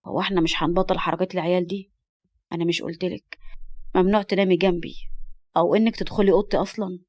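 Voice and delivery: manly voice. Acted. Man telling the girl off for sneaking in, mildly stern. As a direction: scold mildly in an understated man's voice. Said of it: "وسمعت صوت الرجول المهلك".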